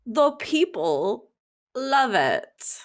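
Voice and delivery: put-on slow British accent. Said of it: "was that supposed to be British or New Zealand".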